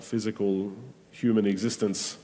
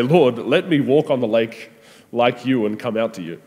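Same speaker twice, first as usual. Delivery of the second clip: bold eager plea; 3 semitones higher, 5 dB louder than usual. Retold or imitated. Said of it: "ridiculous act of faith to say".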